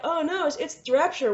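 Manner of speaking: imitated pretend alarm with a nudge; mock alarm. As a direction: play a prankster badly faking alarm. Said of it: "they were totally gonna prank this guy".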